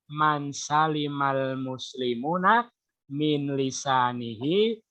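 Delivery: slow, measured recitation of the hadith; Arabic hadith recitation. Retold or imitated. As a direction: recite it slowly, phrase by phrase like scripture. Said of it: "Kata beliau".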